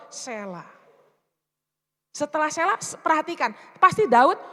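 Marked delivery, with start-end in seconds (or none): none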